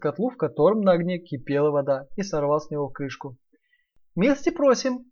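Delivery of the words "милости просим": much higher, sly welcoming piglet; sly welcome. Acted. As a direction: welcome him with a wink in the voice. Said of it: "сказал Наф-Наф и подмигнул".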